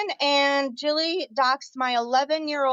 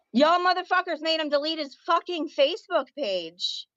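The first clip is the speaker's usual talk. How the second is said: indignant confrontation; 4 semitones higher than usual. Real, not acted. Confronting those who doxxed brother.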